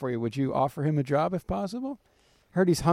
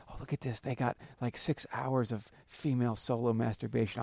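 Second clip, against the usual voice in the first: low-key, softer sly aside; 3 semitones lower, 6 dB quieter than usual. Retold or imitated. Traveler spotting a tape in airport porn shop, sly undertone. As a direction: keep it down, as if sneaking a find.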